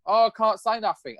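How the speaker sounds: high-pitched mock tearful reply; imitated crying. Girlfriend too upset to tell him, imitated tearful protest. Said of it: "she was crying her eyes out".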